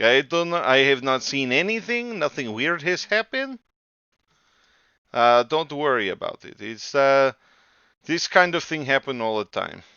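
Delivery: put-on Russian accent. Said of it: "has got a pretty thick Russian accent".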